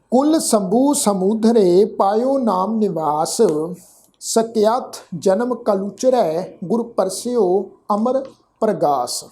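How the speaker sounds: slow, measured recitation of the verse; scripture recitation. Acted. Teacher recites the Gurbani verse for the sangat, slow and measured. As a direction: intone each word of the hymn evenly.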